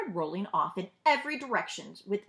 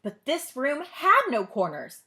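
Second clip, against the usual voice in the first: ordinary delivery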